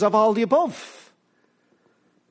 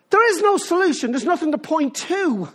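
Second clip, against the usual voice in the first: emphatic; 5 semitones higher than usual. Real, not acted. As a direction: proclaim it as a warning. Preacher's climactic point.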